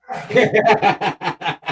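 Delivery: high, loud burst of laughter; hearty laugh. Real, not acted. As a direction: laugh out loud at your own tease. Teasing co-host after their joke.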